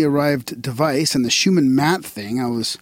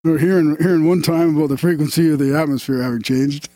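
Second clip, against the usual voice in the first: a hint of stoner Canadian voice; Darren; 3 semitones higher than usual. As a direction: lightly put on a bad stoner Canadian impression. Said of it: "I should have done it in Darren's stoner Canadian voice".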